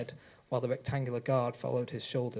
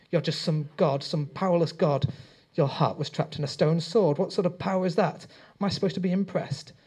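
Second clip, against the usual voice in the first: loud, higher, scornful shouting; defiant taunt; 5 semitones higher, 7 dB louder than usual. A narrator's reading. Rob defying the god holding him, loud and scornful. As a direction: hurl the insult upward.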